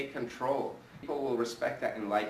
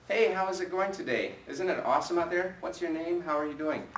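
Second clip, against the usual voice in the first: upbeat and bright, pitched up, full of energy; energetic phone greeting; 3 semitones higher than usual. Shown as a demonstration. Agent greeting a caller with high energy. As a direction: sell the excitement down the line. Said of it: "You have to create energy and excitement".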